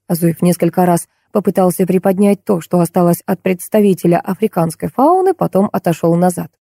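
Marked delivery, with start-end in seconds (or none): none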